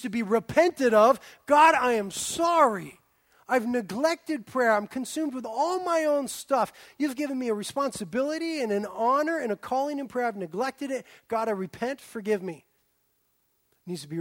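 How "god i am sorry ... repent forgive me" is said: mock repentant prayer. Shown as a demonstration. Preacher modelling a prayer of repentance, earnest. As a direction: pray it like you mean it.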